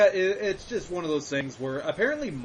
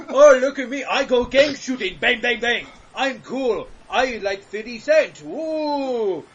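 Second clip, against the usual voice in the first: mock gangster American; 5 semitones higher, 5 dB louder, slower than usual. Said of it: "mocking a gangster American".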